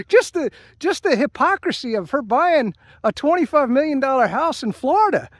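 incredulous, exasperated griping; indignant rant. Real, not acted. Political rant about hypocrisy.

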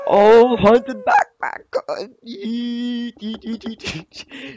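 high, loud excited squeal; giddy excitement. Real, not acted. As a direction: shriek with glee. Celebrating loot.

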